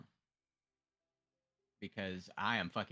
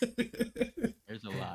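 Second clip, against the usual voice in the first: high silly voice; 10 semitones higher, 4 dB louder, much slower than usual. Acted. Joking about many crabs.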